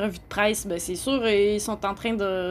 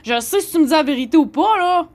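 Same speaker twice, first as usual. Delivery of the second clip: loud, higher angry retort; replaying telling Chris off, loud and higher; furious retort; 5 semitones higher, 3 dB louder than usual. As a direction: tell Chris off in a rage. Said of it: "je viens en furie".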